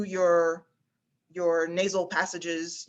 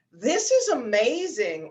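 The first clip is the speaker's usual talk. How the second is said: lifted into head voice, slower; head voice demo; 4 semitones higher, 3 dB louder, slower than usual. Shown as a demonstration. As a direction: ring it up in your head. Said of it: "put a one hand or two on your head".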